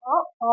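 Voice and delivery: ఓ, ఓ drawn out as a long round O; long O sound. Shown as a demonstration. Teacher showing pupils how to say it, a long ఓ. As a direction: say ఓ, ఓ with a long clear O. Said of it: "అని పలకాలి".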